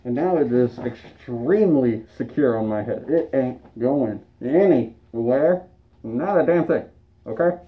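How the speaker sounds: muffled under a face mask. Real, not acted. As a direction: talk through a balaclava, muffled. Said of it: "My voice is a little muffled".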